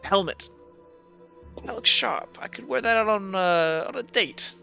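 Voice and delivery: a hint of a haggling character, pitch lifting here and there; understated dice player angling for a prize; lightly voiced bargaining gambler. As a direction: casually talk up the wager in character.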